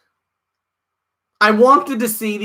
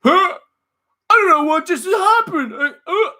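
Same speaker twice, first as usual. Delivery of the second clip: high mocking confused voice, laughing through it; mock Titus O'Neil; 10 semitones higher than usual. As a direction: play the baffled wrestler for laughs. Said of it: "towards the end going".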